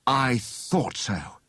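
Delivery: slow, drawn-out realisation; a slow, knowing "I thought so"; vehement realisation. Acted. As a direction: let it dawn on him slowly. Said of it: "turned over the leaves vehemently".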